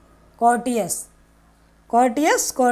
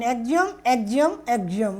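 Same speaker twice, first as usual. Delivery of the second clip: exhume, exhume drawn out very slowly, each syllable stretched; slow drill pronunciation; 3 dB quieter, much slower than usual. Shown as a demonstration. Teacher drilling exhume, exhume for students, stretched very slowly. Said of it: "teacher repeats vocabulary word".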